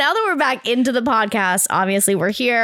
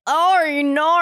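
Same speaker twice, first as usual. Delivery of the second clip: put-on Aussie accent; 6 semitones higher than usual. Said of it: "my brain's like".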